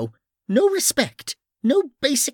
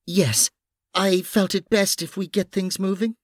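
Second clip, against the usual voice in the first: high, slightly nervous voice; 8 semitones higher than usual. A narrator's reading. Noreen backing the cover story to the officer, a little nervous. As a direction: pitch it up with a touch of nerves. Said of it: "Noreen added nervously".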